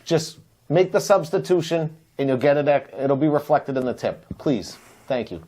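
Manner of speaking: low, earnest pretend plea to a server; solemn, passionate appeal. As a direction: beg for a favour, mostly low-pitched. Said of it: "It was passionate".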